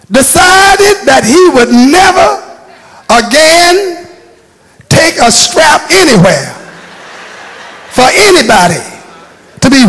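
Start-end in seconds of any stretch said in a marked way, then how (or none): 0.1-6.5 rising emphasis. Real, not acted. Preacher building to a point.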